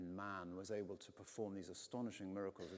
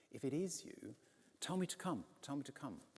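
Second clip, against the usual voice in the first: high, pleading, tell me to come; eager plea; 7 semitones higher than usual. Acted. Peter begging Jesus to call him, high and eager. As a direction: beg like an impatient disciple.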